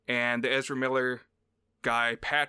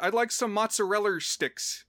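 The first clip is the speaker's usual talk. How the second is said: higher-pitched attempt at American with English leaking through; Ron's English-tinged American accent; 6 semitones higher than usual. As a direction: fumble an American accent, adding R to "mozzarella". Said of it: "So, like, Ron is like".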